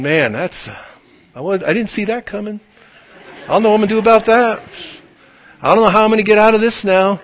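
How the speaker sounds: fast, mock-panicked voice of a cornered player; mock flustered God. Preacher mocks God as flustered by our move. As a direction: play God pretending to be caught off guard.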